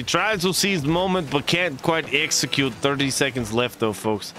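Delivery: lively esports play-by-play, rising on big plays; play-by-play casting. Acted. Streamer casting a match to viewers, lively play-by-play. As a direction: call the match like a hyped caster.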